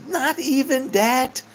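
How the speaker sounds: put-on high, slow gruff old German man; high, slow disbelieving old German man scolding; old German guy. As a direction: play the stern old German boss. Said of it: "And he goes".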